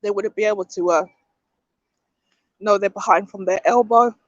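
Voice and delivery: struggling voice, throat catching; choking. Real, not acted. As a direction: talk through a choking fit. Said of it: "I don't know why I'm choking".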